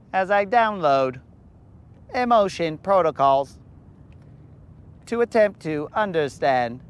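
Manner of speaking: stiff robot voice. Pretend. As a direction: speak like a computer. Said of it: "you're a machine".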